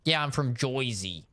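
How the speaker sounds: mock New Jersey accent with "Joyzy"; lightly imitated Jersey local, "oy" for "er". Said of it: "Like, to say Joyzy".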